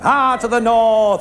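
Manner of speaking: slow, drawn-out mock commentator call; Eddie Waring. Comedian imitating Eddie Waring's slow commentary call. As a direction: stretch it out like an old rugby commentator. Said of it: "That's Eddie Waring".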